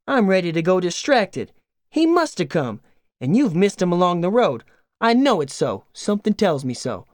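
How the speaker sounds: hammed-up worry, voice climbing; fretting farm wife.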